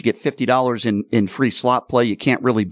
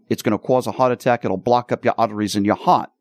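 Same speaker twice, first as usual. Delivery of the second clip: a mild mock New York accent, dropped r's; Bronx New York accent. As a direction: lightly imitate a Bronx New York mother. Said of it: "with her Bronx, New York accent".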